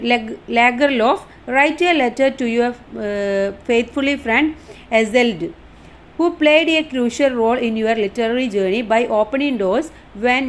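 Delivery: reading the English line out slowly, word by word; slow dictation reading. Shown as a demonstration. Teacher reading the study notes aloud, slow and deliberate. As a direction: spell it out slowly for the class.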